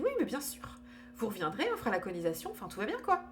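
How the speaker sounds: imitating a breezy reassurance, pitch jumping high; high-pitched mock reassurance; reassuring. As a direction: brush the worry away in a high, retold voice. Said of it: "elle me rassure, quoi".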